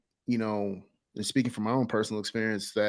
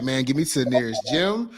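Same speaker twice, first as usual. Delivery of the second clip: loud, fast, higher and excited; pumped-up inner voice; 7 semitones higher, 9 dB louder than usual. Retold or imitated. Host pumped up, imagining calling gyms, excited shout. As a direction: fire yourself up like a man ready to hire someone. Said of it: "I'm like".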